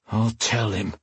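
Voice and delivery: grating, reluctant agreement; grated. A narrator's reading. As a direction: grate it out through a tight throat. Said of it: "he grated".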